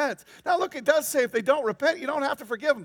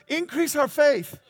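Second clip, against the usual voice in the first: desperate plea; 5 semitones higher, 6 dB louder, slower than usual. Acted. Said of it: "The apostle said to the Lord".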